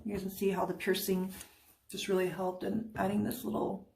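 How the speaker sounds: talking around a candy; sucking a hard candy. Real, not acted. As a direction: mouth full of candy. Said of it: "I have candy in my mouth now".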